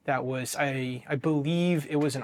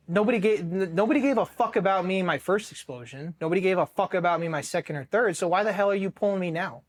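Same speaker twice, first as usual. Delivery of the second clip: indignant protest, moderately raised; retold anger; 3 semitones higher than usual. Marine protesting being pulled from deployment, retold anger. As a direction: argue it with pent-up resentment. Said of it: "And I was very angry".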